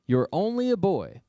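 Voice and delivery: high, loud, incredulous scoff; scoffing king. Acted. King Saul telling young David he's ridiculous, high incredulous scoff. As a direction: laugh him off as a silly kid.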